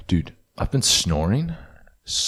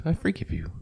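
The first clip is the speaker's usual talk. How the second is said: voicing the dog; 12 semitones higher, 5 dB quieter than usual. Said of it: "She's like".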